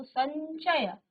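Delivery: संचय slowly, with the nasal before च; slow demonstration. Shown as a demonstration. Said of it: "आधा यो का उच्चारण आया है".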